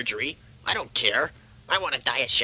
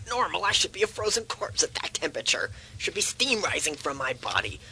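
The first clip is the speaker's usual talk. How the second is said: indignant disbelief; 3 semitones higher than usual. Acted. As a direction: object as if it's absurd. Patient disputes normal temperature.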